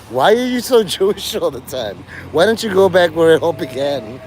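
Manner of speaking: half-laughing mock question; laughing through a quote. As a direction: quote broken by giggles. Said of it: "New York ... said".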